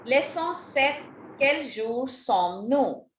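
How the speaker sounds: slow, careful French, SEPT as "set", QUEL as "kell"; measured LEÇON SEPT, then drawn-out QUEL JOUR SOMMES-NOUS; model pronunciation. Shown as a demonstration. Teacher giving new students the pronunciation to write down, slow and careful. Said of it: "you have to pronounce it correctly".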